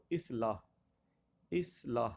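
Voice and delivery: اصلاح as "is-laah", short i first; correct pronunciation. Shown as a demonstration. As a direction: say اصلاح in two clear syllables, "is-laah". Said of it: "درست لفظ".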